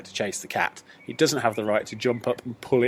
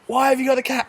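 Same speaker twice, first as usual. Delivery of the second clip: high, louder puzzled woman; surprised woman; 13 semitones higher, 4 dB louder than usual. Retold or imitated. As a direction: pitch it way up in disbelief. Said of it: "she went".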